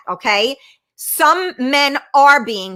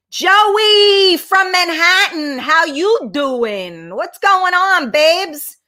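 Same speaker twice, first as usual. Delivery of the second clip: high, drawn-out hello, loud on the name; calling out a greeting; 6 semitones higher, 3 dB louder, much slower than usual. Real, not acted. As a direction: sing out a big, stretched welcome. Drawn-out greeting called to Joey.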